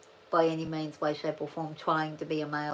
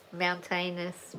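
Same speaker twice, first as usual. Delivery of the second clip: hillbilly accent; much slower than usual. Shown as a demonstration. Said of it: "hillbilly and slangish way of talking".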